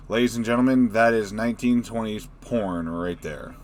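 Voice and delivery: loud mock showman announcement; announcer voice. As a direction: present it like a ringmaster.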